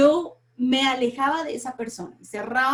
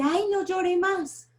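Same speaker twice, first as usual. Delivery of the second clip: a touch higher, slow, mock-pitying "ay"; pitying comforter; 7 semitones higher, slower than usual. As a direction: lightly imitate someone hushing a mourner. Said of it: "alguien me dice".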